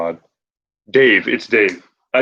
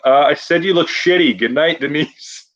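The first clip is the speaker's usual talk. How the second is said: flustered Rod; 6 semitones higher than usual. Retold or imitated. Rod covers a compliment, flustered.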